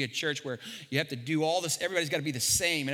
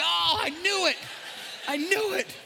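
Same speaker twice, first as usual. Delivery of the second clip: laughing groan; 12 semitones higher than usual. Retold or imitated. Pastor hears about fire marshal, laughing dismay. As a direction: laugh it out in defeat.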